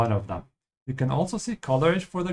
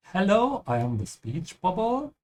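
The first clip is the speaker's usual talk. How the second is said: playful speech bubble; 6 semitones higher than usual. Acted. Speech bubble character greets in English.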